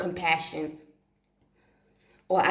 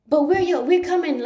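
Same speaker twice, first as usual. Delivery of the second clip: spirit voices; 10 semitones higher, 6 dB louder than usual. Retold or imitated. Spirits pleading with mother.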